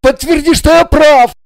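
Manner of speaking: high, loud desperate plea; pleading husband. A narrator's reading. Husband desperately begging the blonde to confirm he's right. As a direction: beg the blonde to back him up. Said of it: "поспешил обратиться с мольбой".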